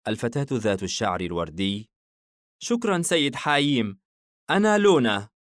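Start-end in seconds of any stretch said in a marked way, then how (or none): 2.6-5.3 put-on much higher girl voice, confident; a tiny girl sure of herself; girl, cheerful. الفتاة تعرّف بنفسها. (صوت فتاة عالٍ وواثق)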